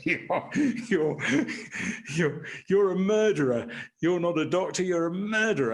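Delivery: half-acted prisoner screaming accusation; mock furious shout; retold scream. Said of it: "he started screaming".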